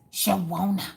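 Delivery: slow, high-lifted name; a pop singer. Shown as a demonstration. Teaching viewers to say the name, in a pop singer's style. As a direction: stretch the name out like a pop star. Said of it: "say it like a famous singer".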